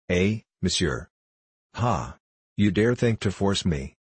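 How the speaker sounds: a hint of a mocking Frenchman; lightly accented French gambler, amused at his debtor; touch of French accent; lightly voiced French gambler.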